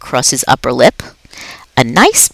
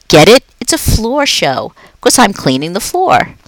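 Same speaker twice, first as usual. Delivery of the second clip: friendly, higher, lively janitor voice; a jolly night janitor chatting to a pet; upbeat, chatty custodian; Aldo the cheerful janitor; 5 semitones higher than usual. Acted. Aldo explains joke.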